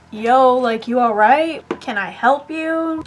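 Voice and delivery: retold call-out, lifting into the question; mild mock yell. Neighbour calls out to woman in his backyard, mild retold yell. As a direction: lightly imitate someone calling out to check on her. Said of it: "maybe yelled out there to her".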